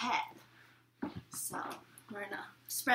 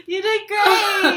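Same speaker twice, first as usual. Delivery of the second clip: excited; 8 semitones higher, 11 dB louder, slower than usual. Real, not acted. Praising guest twin.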